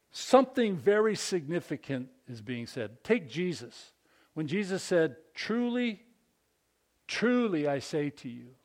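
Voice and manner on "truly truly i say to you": first "Truly" lifted high, then a pause; emphatic repetition. Acted. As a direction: set off "Truly" high before repeating it. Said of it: "the tool that expresses importance is repetition".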